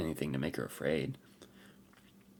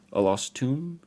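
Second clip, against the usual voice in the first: high, louder, amused echo of tomb; almost amused; 9 semitones higher, 8 dB louder, slower than usual. A narrator's reading. Warrior echoes the girl's question, almost amused. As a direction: repeat tomb as if it's a bit funny. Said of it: "almost amused".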